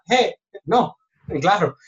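high mock sarcasm with a laugh; sarcastic reply. The person in the hole answering the scolder, high sarcastic mock.

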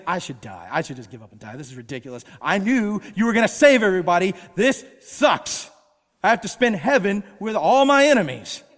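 pout, then blow up at God; sulky cursing. Retold or imitated. Jonah grumbling to God under the tree, sulky then loud. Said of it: "pouts, starts breathing down curses".

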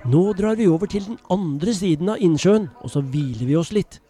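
put-on lively storyteller voice reading to children; story narration. A narrator's reading. Storyteller reading a Bible story to children, lively narration. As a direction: tell it like a bedtime Bible story.

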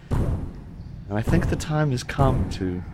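slow, menacing villain speech; gloating villain. Acted. Villain gloating through the door at the trapped party. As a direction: savor each word of the threat.

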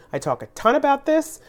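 hoarse, strained voice going; a voice that is nearly gone; losing voice. Real, not acted. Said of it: "I'm losing my voice".

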